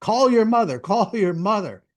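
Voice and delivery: imitating an irate man's demand; acted angry demand. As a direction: order it like an angry man, then repeat. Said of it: "went total angry man".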